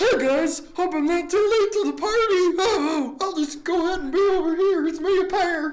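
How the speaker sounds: very high, loud, overeager talking pear voice. The speaker performs an impression of a pear for the other speaker. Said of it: "You want to hear my impression?".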